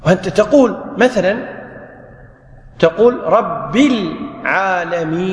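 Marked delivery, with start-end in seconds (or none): 3.2-5.3 "العالمين" stretched on its long final ee. Shown as a demonstration. Teacher quotes an example, drawing out the end of "العالمين". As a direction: hold the last syllable of "العالمين".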